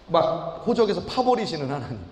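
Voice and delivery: normal talking voice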